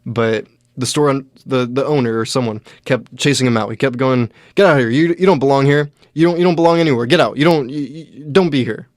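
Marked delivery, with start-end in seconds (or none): 4.5-8.9 loud, high, harsh order to get out; retold angry yelling. Owner chasing a homeless man out, mock angry yelling. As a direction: bark at him to leave like you mean it. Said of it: "He was saying, like, real hurtful stuff to him".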